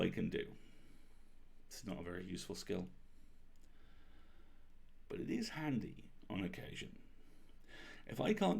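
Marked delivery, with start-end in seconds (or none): 1.7-7.0 whispered aside. A narrator's reading. Wry confiding aside.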